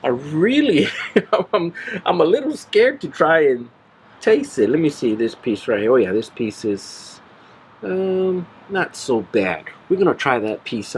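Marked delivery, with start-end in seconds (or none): 0.0-4.7 nervous laughing. Real, not acted. Nervous about tasting hot food.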